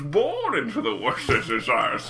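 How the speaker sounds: slow, lightly voiced Bane villain; slow menacing villain line, lightly done. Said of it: "I like doing a Bane voice".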